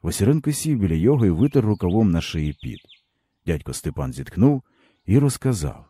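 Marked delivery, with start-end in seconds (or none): none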